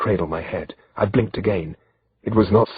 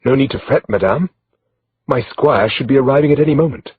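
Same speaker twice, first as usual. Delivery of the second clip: mildly put-on French accent, a bit higher and louder; light gallant French accent; finest French accent; 6 semitones higher, 4 dB louder than usual. A narrator's reading. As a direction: answer the lady in a polished French accent. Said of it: "I replied in my finest accent".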